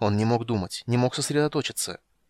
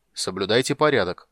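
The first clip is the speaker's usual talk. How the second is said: stern judge; 5 dB louder than usual. A narrator's reading. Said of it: "строго воззвал он".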